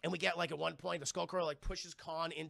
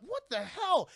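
shocked monster; 11 semitones higher, 6 dB louder, slower than usual. Retold or imitated. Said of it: "And Skullcrawler's like".

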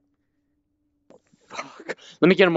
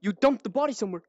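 higher, much softer conspiratorial tone; hushed realisation; 6 semitones higher, 8 dB quieter than usual. Real, not acted. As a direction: murmur the accusation as if discovered. Hushed accusing after reveal.

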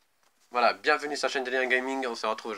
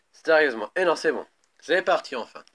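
raging gamer; 6 semitones higher, 10 dB louder than usual. Real, not acted. Exasperated then relieved shout.

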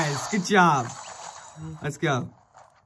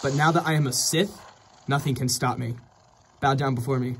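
dark lord; 2 semitones lower than usual. Pretend. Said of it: "I'm now becoming a Sith Lord".

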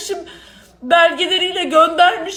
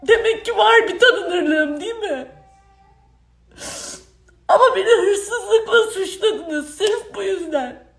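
crying; 3 semitones higher than usual. Real, not acted. Accusation, crying, slow.

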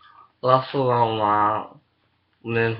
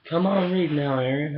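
imitating teacher; 3 semitones higher than usual. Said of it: "Remember she said".

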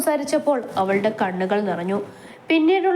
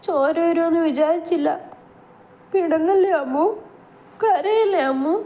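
put-on high, tearful man-child pleading; crying childlike plea; 7 semitones higher than usual. A narrator's reading. Grown man with a child's mind, crying, apologises to his wife. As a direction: beg her not to cry, voice breaking. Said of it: "അവൻ്റെ കരച്ചിലോടുള്ള സംസാരം".

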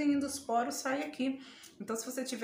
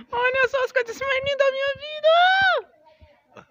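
very high, loud and slow, bursting with love; 14 semitones higher, 13 dB louder than usual. Real, not acted. Grandma presenting her grandbaby, high gushing exclaim.

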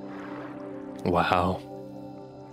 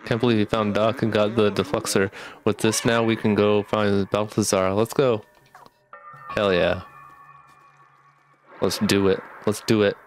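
talking around a retainer; slightly slurred with retainers in; wearing a retainer. Real, not acted. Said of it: "if I talk a little bit weird, it's because I do have my retainers in".

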